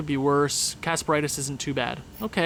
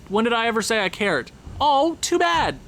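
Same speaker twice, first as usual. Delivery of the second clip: heated snap; 5 semitones higher than usual. Real, not acted. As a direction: snap back at the player. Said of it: "I'm kinda heated right now".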